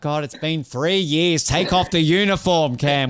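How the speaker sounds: lightly voiced exasperated girlfriend. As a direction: imitate a fed-up partner pleading. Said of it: "your girlfriend gonna be like".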